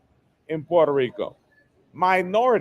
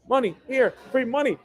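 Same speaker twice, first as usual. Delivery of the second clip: higher, mocking voice offering cash; mock buyer's pitch; 5 semitones higher than usual. Buyer pushing cash on an owner, in a higher, mocking voice. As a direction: ham up an eager buyer waving cash. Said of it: "They'll come in begging with money".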